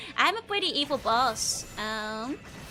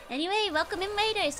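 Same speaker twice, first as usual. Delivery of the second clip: cute anime streamer; 8 semitones higher than usual. Real, not acted. Greeting raiders again.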